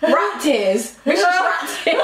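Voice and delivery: mouth propped open. Real, not acted. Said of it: "I cannot hear a word".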